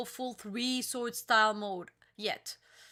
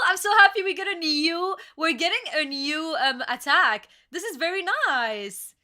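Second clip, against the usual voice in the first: excited fan; 5 semitones higher, 6 dB louder than usual. Real, not acted. Fan thrilled by new attack.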